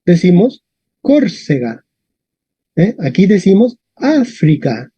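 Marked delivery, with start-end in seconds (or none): 1.0-1.8 "Córcega" stressed on the first syllable, COR; Spanish stress. Shown as a demonstration. Teacher showing the Spanish form, stress on CÓR in "Córcega". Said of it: "Y en español decimos". 4.0-4.9 "África" set apart, stressed on Á; pause, then stress the first syllable of "África"; Latin stress kept. Shown as a demonstration. Teacher showing Spanish keeps the accent, Á stressed in "África". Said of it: "mantiene el acento del latín".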